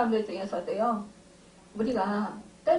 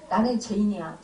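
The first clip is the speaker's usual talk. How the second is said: 스스로를 탓하며 힘없이 말하는 "나는 죄인이야"; 고개 숙인 듯 낮게 끝을 떨어뜨리며; 5 semitones lower than usual. Retold or imitated. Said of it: "나는 하나님을 찾을 면목이 없어". (자책하는 신자의 가라앉은 한마디)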